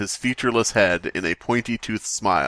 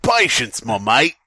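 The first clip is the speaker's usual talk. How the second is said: otherworldly voice; 2 semitones higher, 5 dB louder than usual. Acted. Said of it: "in an otherworldly voice and whisper".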